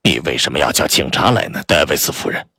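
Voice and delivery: low, hushed complaining voice; low reproach. Acted. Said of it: "急促而低沉的声音中透着强烈的埋怨".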